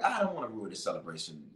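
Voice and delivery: soft, quick reluctant mumble; reluctant reply. Retold or imitated. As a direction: play back a hushed, hesitant answer. Retells his reluctant, quiet answer.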